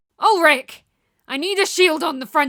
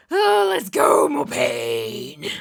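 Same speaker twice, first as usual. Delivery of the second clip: mock battle cry; much slower than usual. Real, not acted. Cheering herself on through pain.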